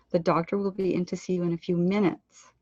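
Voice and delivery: weight on FEW MINUTES; phrase ending landed. Shown as a demonstration. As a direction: let "few minutes" land at the end. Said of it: "allow the end of the phrases to land".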